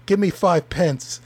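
laughing mock Scottish brogue; broad Scottish accent. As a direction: laugh through a mock Scots voice. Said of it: "thick Scottish accent".

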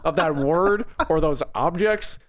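put-on Southern dad, growing accent. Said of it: "your accent got, like, progressively more southern".

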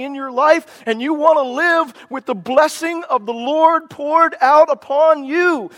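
fervent rising preacher's build, pitch climbing; revival-style fervour building line by line; getting excited. Real, not acted. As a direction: let the passion swell as you preach. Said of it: "I'm getting a little bit excited".

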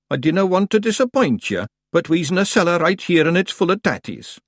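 high Scottish little-man voice; Feegle, mildly contradicting. A narrator's reading. A Feegle corrects his mates in the cellar, contradicting. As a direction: pipe it up in broad Scots.

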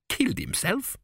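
rising disbelief; incredulous. Acted. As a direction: repeat it in disbelief. King incredulous at news.

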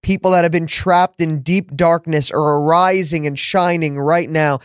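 a touch of preaching fervor in the prayer; spoken prayer. Acted. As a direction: pray it out over the listeners. Leads a closing prayer.

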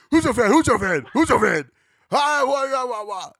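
put-on high, loud caricatured African accent; bad African accent. Host mocking an actor's film scene, bad African accent. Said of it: "Every time he put on that accent".

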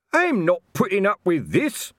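high, loud bellow. A narrator's reading. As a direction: roar it out in fury. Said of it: "bellowed Colon".

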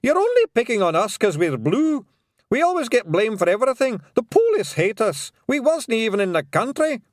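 high, loud Scots plea; frantic Scots pixie yelling; desperate yell. Acted. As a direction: beg the lads to back you. Rob Anybody.

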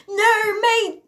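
high, loud mock-British exclamation; British accent. Vlogger showing listeners her accent, hammed-up British. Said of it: "like, a British accent a little bit".

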